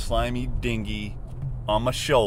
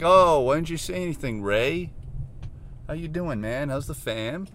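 higher-pitched chummy greeting; mock friendly; 5 semitones higher than usual. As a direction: greet the spider like an old pal. Acted friendly greeting to the spider.

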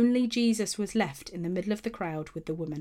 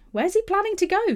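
puzzled; 12 semitones higher, 4 dB louder than usual. A narrator's reading. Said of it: "were puzzled by this statement".

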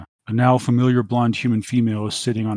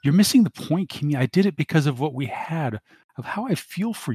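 whining; 6 semitones higher than usual. Acted. Dante pleading on comm.

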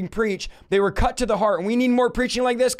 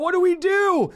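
raised, pleading cry of the crowd; mock crying out; 4 semitones higher than usual. Men crying out to Peter, pleading raised voice. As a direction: cry out like desperate men begging. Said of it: "what the men are crying out".

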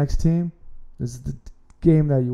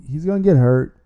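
emphatic warning; 6 dB louder than usual. Real, not acted. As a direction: punch the word "get" louder, a firm warning. Emphatic warning about quarterback.

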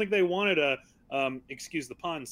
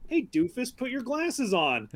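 higher-pitched mocking quote; mock scolding; 6 semitones higher than usual. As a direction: imitate someone chiding a doofus. Acts out character's glasses remark.

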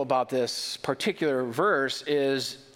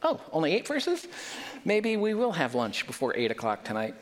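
mock listener; 3 semitones higher than usual. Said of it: "So you're like".

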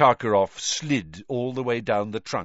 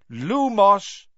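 spell incantation; 11 semitones higher, 8 dB louder than usual. Acted. Spell cast in dark forest.

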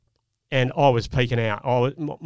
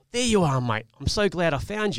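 smiling greeting; 5 semitones higher than usual. Retold or imitated. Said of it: "with a smile on my face saying".

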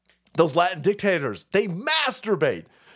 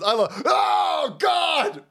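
excited shout; 8 semitones higher, much slower than usual. Real, not acted. Shouting at game.

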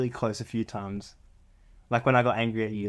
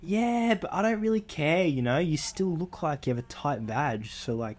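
lightly voiced Santa brushing it off, slower; a hint of a sleazy Santa; 4 semitones higher than usual. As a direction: play a shameless Santa, only a touch. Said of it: "Can I be Santa Claus".

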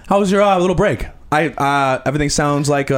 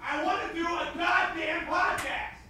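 mock angry yell; 3 semitones higher, 13 dB quieter than usual. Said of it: "I can tell when you got actually angry".

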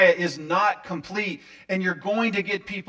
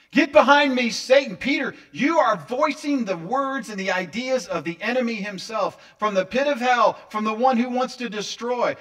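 loud, high, thundering denunciation; fierce rebuke; 5 semitones higher, 6 dB louder than usual. Acted. Jesus turning on Peter as voice of the enemy, fierce rebuke. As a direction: thunder it out, hammering each phrase. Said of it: "He responds to Peter in the same way".

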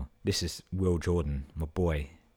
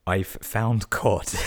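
slow, louder, savouring the joke; slow, raised-voice punchline delivery; drawn-out punchline; 4 semitones higher, 5 dB louder, much slower than usual. Real, not acted. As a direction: stretch the punchline out with relish. Repeating punchline while amused.

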